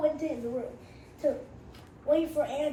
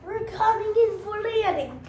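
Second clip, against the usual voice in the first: higher, louder captain call; pilot announcement; 6 semitones higher, 6 dB louder than usual. Acted. Little Bill as captain, calling the landing loudly.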